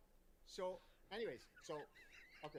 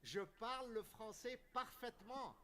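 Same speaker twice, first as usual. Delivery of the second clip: French; 7 semitones higher than usual. Shown as a demonstration. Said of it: "I'm fully francophone".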